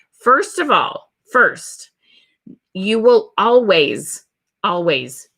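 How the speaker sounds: whispered first of all. Shown as a demonstration. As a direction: lean in and whisper it. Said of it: "whispered emphasis, teaching".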